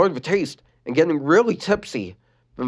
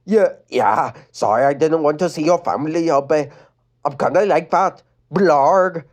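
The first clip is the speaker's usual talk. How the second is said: lightly voiced boy grunting blarg; casual boy voice ending in a grunt; Adam voice; 3 semitones higher, 4 dB louder than usual. Adam's voice with blarg.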